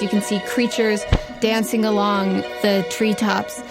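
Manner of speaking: usual speaking voice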